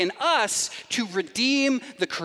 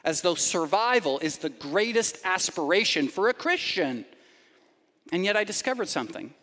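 usual speaking voice

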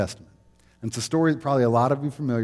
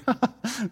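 cute giggle; 12 semitones higher than usual. Retold or imitated. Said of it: "not one of those cute".

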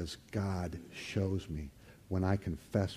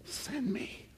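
high quiet send me; 5 dB quieter than usual. Acted. Pastor models humble surrender.

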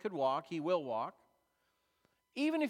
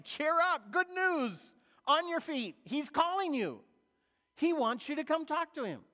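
higher, louder, excited calling out; eager crowd call; 7 semitones higher, 3 dB louder than usual. Retold or imitated. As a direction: crowd urging the blind man to get up and come. Crowd calls the blind man.

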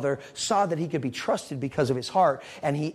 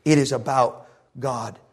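preaching loud; 6 dB louder than usual. Real, not acted. Preaching climax.

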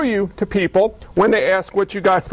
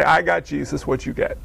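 smiling answer; 5 semitones lower, 4 dB quieter than usual. Retold or imitated. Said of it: "he would smile on his face and say".

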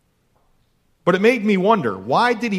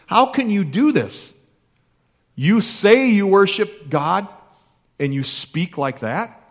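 incredulous accusation; 3 semitones higher, slower than usual. Acted. The world challenges a careless believer, slow incredulous rebuke. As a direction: demand an answer, appalled.

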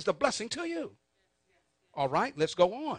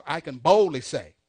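call and response; 4 semitones lower, 9 dB louder than usual. Shown as a demonstration.

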